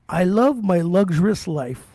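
slow, mock Indian-accented scammer. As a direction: imitate the caller's Indian accent, drawn out. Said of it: "can't even do the Indian voice".

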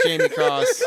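cracking up mid-intro; bursting into laughter; laughing. Real, not acted. Host breaks into laughter.

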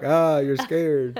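slow, drawn-out tease; Claw game imitation. Playing it for the kids, slow mock taunt. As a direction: stretch out the taunt. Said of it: "I'm like".

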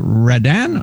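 "Redan" as a first guess, offered questioningly; pronunciation guess. Shown as a demonstration. Host asks guest how to say the surname, tentative pronunciation guess. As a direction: try "Redan" as one option. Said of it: "how do you pronounce".

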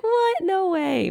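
high, loud mock "What? No way"; shocked disbelief. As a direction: squeal it like a stunned friend. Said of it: "he was like".

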